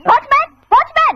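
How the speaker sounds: high-pitched call for the watchman; calling for help. Acted. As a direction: summon the guard in alarm. Calls watchman for help against intruder.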